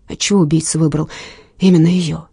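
usual speaking voice

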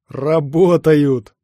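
loud, drawn-out cry of success; triumphant exclamation. Acted. Hero sees the batteries come alive, triumphant cry. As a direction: stretch the word out in triumph.

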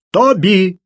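almost yell his name; near-shout. A narrator's reading. Марк едва не кричит на Тоби, перебивающего его. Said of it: "едва не заорал Марк".

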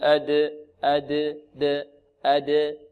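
أد with a neutral bounce on the d; slow echoing release of د in أد; qalqalah. Shown as a demonstration. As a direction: bounce أد without any vowel. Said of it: "بل".

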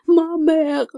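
high bleating cry; bleating plea. A narrator's reading. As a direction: bleat it like a frightened lamb. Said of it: "заблеяла Альфонсина".

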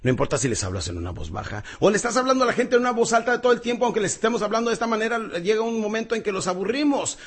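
quick and high, all energy; high-speed enthusiastic talk; fast excited delivery. Shown as a demonstration. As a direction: rush it like an excited speaker. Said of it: "cuando me emociono y hablo de esa manera".

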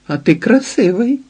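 high, amazed exclamation; surprised exclaim. A narrator's reading. Izidora to Ilia, a surprised high exclamation. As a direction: blurt it out as if seeing him first time. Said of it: "вигукнула так здивовано".

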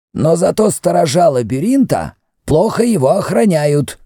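high-pitched indignation; indignant. A narrator's reading. Protest indignantly in a high voice. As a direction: priest complains of the labyrinth's poor guards, indignant. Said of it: "проговорил с возмущением Мефрес".

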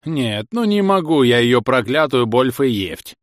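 put-on slow, toothless old man mumble; mumbling toothless old man. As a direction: lisp it like an old man with no teeth. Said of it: "прошамкал старик". (шамкающий старик)

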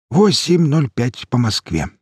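slow, savouring triumph; triumphant. Acted. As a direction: announce the time in triumph. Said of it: "В голосе чувствовалось торжество". (торжествующе)

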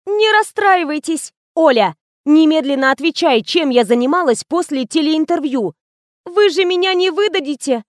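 put-on young assistant gossiping.

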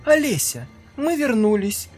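put-on high, loud eerie child voices; sing-song haunting call; creepy ghost children. Ghost girls return laughing.

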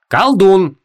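high, loud, clipped verdict; cut him off. A narrator's reading. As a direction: chop the word off hard. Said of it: "отрубила Ванесса". (резко, громко, отрывисто)

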